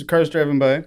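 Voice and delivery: talking through a mouthful of ice cream; words muffled by a cold mouthful; mouth full. Real, not acted. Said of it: "your mouth is full and you can't do anything about it".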